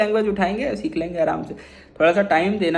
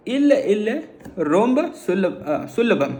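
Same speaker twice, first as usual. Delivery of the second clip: slow Tamil demo; slower than usual. Shown as a demonstration. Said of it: "वहाँ कैसे बोलोगे?".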